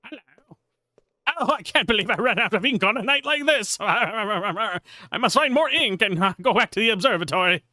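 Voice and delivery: put-on a dithering old professor in a rush; flustered old scholar.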